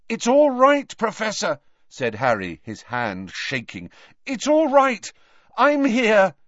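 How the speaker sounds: high, strained comforting; reassuring. Acted. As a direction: soothe him, shaking with fear. Harry comforting terrified Dumbledore.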